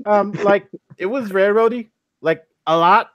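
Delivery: high, bouncy valley girl imitation, rising at the ends. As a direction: play the Valley Girl, all upspeak and like. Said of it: "in your best Valley Girl voice".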